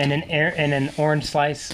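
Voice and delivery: muffled, spoken into a glass; words muffled by the glass rim; talking into a glass. Real, not acted. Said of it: "I'm talking into my glass".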